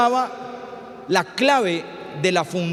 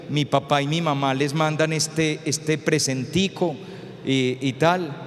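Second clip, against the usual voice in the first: put-on lower, softly measured polite boy; muchacho bien criado; 4 semitones lower, 3 dB quieter than usual. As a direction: play a courteous young suitor greeting the parents, pitched low. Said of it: "Un peladito bien criado llegaba". (muchacho educado, voz baja y formal)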